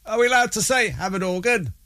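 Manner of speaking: very high, mock-worried little voice; silly put-on voice. Radio host playfully checking if a word is allowed, silly high voice. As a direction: squeak out a mock-anxious question. Mock query, answered in usual voice.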